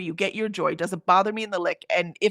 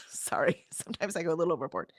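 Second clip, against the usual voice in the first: whisper; 4 semitones lower, 6 dB quieter than usual. Real, not acted. Whispered apology for rambling.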